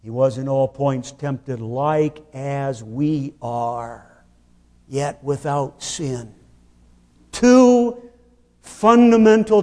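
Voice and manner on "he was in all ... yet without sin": softer, slower reading of the verse; quiet reading. Shown as a demonstration. Preacher reading Hebrews softly to the congregation. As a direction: read the verse gently and slowly. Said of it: "Come to the text".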